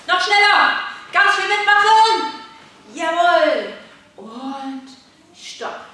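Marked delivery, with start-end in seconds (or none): 0.1-3.7 high, loud urging; cheering on. Real, not acted. Coach spurring children on mid-exercise, loud and excited. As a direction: call out over the action.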